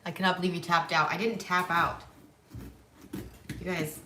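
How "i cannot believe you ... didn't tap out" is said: indignant. Real, not acted. Indignant denial of tapping out.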